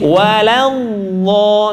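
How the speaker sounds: WALALLAH very slow with a muffled sustained middle; soft, held dad. Shown as a demonstration. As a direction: draw out the middle of WALALLAH unbroken. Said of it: "suaranya empuk". ("Walallah" empuk dan panjang)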